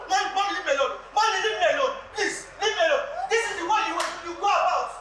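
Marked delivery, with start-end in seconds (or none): 0.1-3.0 mild mock whine of a man begging mommy; a hint of childish pleading. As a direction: imitate him begging, laughing. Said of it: "You tell your big man".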